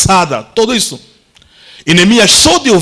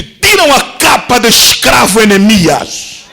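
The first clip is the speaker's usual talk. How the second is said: royal command; 4 semitones higher, slower than usual. Acted. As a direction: command the guard with authority. King commands the guard.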